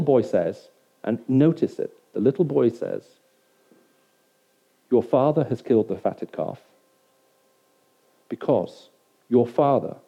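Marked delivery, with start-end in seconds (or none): 4.9-10.0 "father" leaned on each time, measured delivery; stress on father. Acted. Little boy telling the older son the news, stress on "father". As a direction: put the emphasis on "father". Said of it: "The little boy puts the emphasis on".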